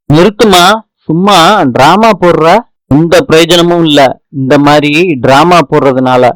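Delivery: stern police officer. Acted. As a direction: bark at her like an interrogating cop. Police interrogating the accused. (கடுமையான police அதிகாரியின் மிரட்டும் குரல்)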